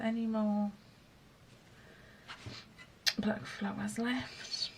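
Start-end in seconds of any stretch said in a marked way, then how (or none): 3.2-4.7 whispering to herself. Real, not acted. Murmuring to herself while crafting.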